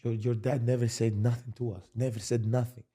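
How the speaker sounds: quiet, hushed retelling of a tearful agent; a mild echo of the agent's tears; retold tearful agent. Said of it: "he was tears in his eye".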